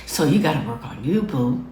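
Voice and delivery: gentle, low-key loving nudge; tender but quick admonishment. Real, not acted. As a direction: soften it into fond advice. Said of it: "I'm saying that lovingly".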